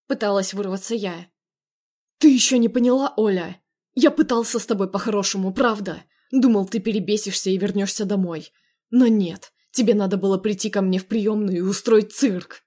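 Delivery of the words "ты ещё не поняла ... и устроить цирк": loud scolding tirade; angry berating. Acted. Andrey berating Olya while dragging her, angry. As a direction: lay into her with anger.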